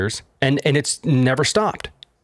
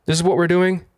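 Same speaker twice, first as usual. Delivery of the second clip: high, indignant imitated question; imitating exasperated people, pitched high; mock exasperation; 7 semitones higher, faster than usual. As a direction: act out the crowd's outrage. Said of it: "Everyone's like".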